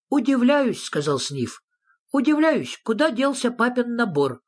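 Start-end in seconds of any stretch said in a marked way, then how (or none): 0.1-0.8 high-pitched little creature; high character voice, querulous; wondering Sniff. A narrator's reading. 2.1-4.4 high-pitched little creature; high character voice, querulous; wondering Sniff. A narrator's reading. Sniff voiced, demanding to know.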